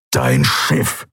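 low, terse snort; snorting impatience. A narrator's reading. Keru demands an answer about Lien's ship, snorting. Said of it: "schnaubte er".

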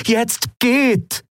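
high, urgent alien command; urgent order. A narrator's reading. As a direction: send them off now. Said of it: "sagte Aylan".

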